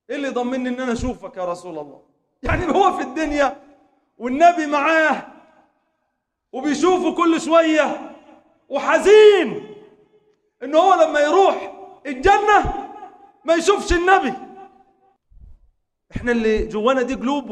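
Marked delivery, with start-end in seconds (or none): 2.4-14.3 louder, higher preaching that builds to a cry on وحزين; rising sermon fervour. Acted. Preacher grieving for the companion to the congregation, fervent. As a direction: preach it with mounting grief.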